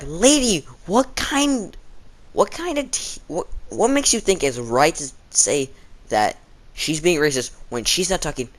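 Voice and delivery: high, outraged disbelief at the teacher; incredulous protest. Retold or imitated. Class reacts in disbelief to teacher.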